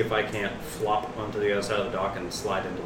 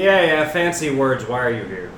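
dismissive; 4 dB louder than usual. Acted. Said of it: "I'm gonna say".

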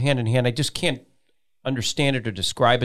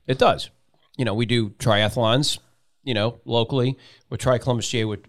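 ordinary talk

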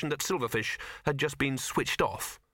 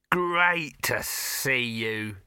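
slow, drawn-out gushing welcome; enthusing; much slower than usual. A narrator's reading. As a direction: greet him with big, stretched-out enthusiasm. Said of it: "Dibbler enthused, his eyes glowing manically".

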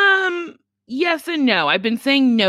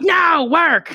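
stern refusal; 6 semitones higher than usual. Retold or imitated. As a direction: cut the idea down flat. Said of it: "And they're like".

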